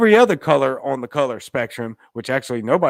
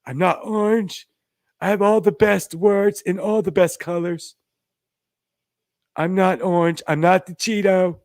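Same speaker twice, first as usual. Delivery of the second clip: a light Trump voice, higher, bragging; lightly voiced Donald Trump boasting; Trump impression; 4 semitones higher than usual. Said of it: "I look orange like the Trump".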